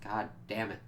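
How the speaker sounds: soft, understated letdown; deflated exasperation. Acted. Viewer let down by the episode, quietly exasperated. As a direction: mutter it softly, disappointed.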